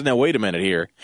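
lightly imitating a low, cool authority; mock-calm, low-pitched warning. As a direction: put on a low, unruffled calm. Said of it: "in his cool, calm voice".

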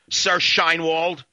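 very slow, sneering "Sir"; stretched sarcastic address; mocking title. Real, not acted. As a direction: drawl the title out with contempt.

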